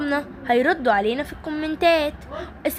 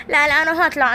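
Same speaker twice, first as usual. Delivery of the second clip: louder, pushing to get out; determined shout; 3 semitones higher, 4 dB louder, faster than usual. Acted. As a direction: fight your way out, loud. Struggling out of water. (إصرار بصوت عالٍ)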